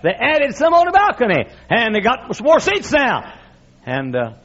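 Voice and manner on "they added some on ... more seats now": Jesus reporting. Retold or imitated. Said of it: "Jesus said".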